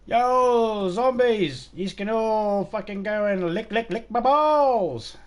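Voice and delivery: high, loud taunting yell, stretched out slowly at the end; real gamer rage yell, dragged-out final words; yelling at zombies. Real, not acted. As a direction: bellow crude taunts at the horde.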